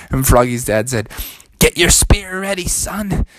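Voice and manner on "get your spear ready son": lightly voiced alarmed dad; higher, urgent command. Frog dad readies son for the bear, urgent.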